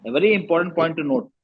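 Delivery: very slow, each word spaced out; teacher stressing a key rule slowly; slow emphatic English. Shown as a demonstration. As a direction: spell it out slowly for the class. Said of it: "ये ध्यान रखिए".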